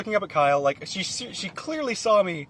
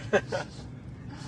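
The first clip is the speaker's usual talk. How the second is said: cartoon laugh; 9 dB quieter than usual. Shown as a demonstration. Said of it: "you'll be like".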